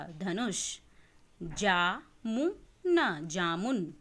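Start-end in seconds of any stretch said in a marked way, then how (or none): 1.4-3.3 पुल drawn out slowly and loud, each sound clear; slow syllabic reading. Shown as a demonstration. Teacher reads पुल slowly, loud and stretched. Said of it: "देखिए कि मैं किस तरीके से पढ़ रही हूँ".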